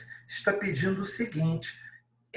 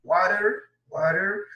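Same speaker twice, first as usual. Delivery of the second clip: American pronunciation; 3 semitones higher, 3 dB louder than usual. Shown as a demonstration. Teacher contrasting American water for the class, flapped T. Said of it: "De modo americano seria o quê?".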